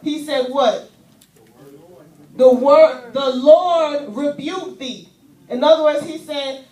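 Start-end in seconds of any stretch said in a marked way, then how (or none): 2.4-5.1 solemn rebuke. Acted. Angel rebukes Satan.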